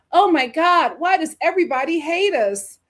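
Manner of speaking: exaggerated woe-is-me complaint; mock whining. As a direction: imitate someone moaning they're hated. Mocks people whining about being hated.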